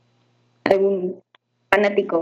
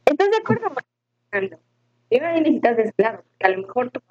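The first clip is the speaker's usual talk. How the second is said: audio entrecortado; faster than usual. Real, not acted. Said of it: "Se te está cortando un poco".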